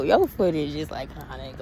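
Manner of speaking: moved almost to crying; choked up. Real, not acted. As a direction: voice catching, close to tears. Tearing up over Wendy.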